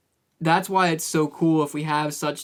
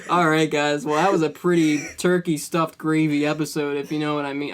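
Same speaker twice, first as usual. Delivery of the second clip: put-on British accent. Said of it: "We're making our own British lango".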